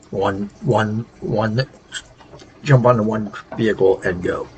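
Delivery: tired stutter on the repeated "one". Real, not acted. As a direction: trip over the first word, worn out. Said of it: "Sorry if I sound like I'm stuttering".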